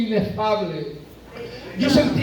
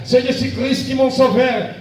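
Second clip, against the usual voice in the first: higher, raised proclaiming cry; retold shout; 4 semitones higher, slower than usual. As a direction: call it out like a praise shout. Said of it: "yo gritaba y decía".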